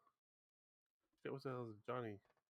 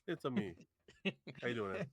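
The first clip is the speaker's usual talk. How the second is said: playful mock Italian accent; "It's a me" tossed off in a cartoon Italian accent; 2 semitones higher, faster than usual. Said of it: "uh, Italian accent".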